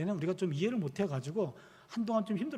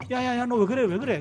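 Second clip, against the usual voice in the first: loud, higher-pitched alarmed dad; retold urgent protest; 6 semitones higher, 8 dB louder than usual. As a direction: call out to stop a child, repeating it urgently. Retold father stopping chair-banging child. (다급하게 말리는 아빠 재연)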